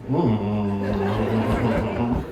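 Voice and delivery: long wordless mumble in imitation; imitated low moan.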